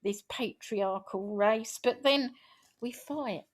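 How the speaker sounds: measured, rhythmic spoken-word delivery; poem recital. Acted. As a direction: recite it like a rallying poem to the room. Reciting her own poem.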